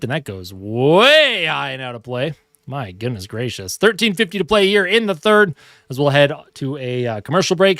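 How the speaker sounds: hockey announcer calling the action; lively sportscaster call; live play-by-play. Acted. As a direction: call the game like a TV broadcaster. Mock hockey broadcast while playing.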